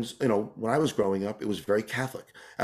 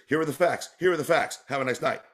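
calm newsreader; 3 semitones higher than usual. Retold or imitated. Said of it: "the news was just".

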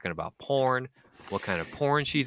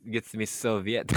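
Russian accent; 5 dB quieter than usual. Shown as a demonstration. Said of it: "in a Russian accent".

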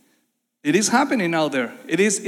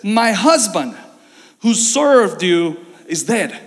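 grieving plea; 4 dB louder, slower than usual. Retold or imitated. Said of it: "she cried out".

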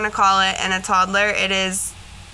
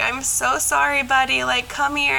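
higher, tender retold apology; retold tearful apology; 4 semitones higher than usual. Mother apologizing to her little boy, mildly tearful. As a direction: lightly re-enact a tearful apology. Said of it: "I immediately started crying".

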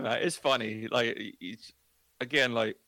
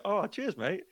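mock gratitude; 8 semitones higher, slower than usual. Acted thanks to young cousin.

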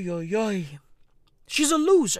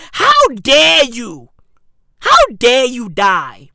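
mock indignant; 2 semitones lower, 8 dB louder than usual. Scolding Queen, repeated louder.

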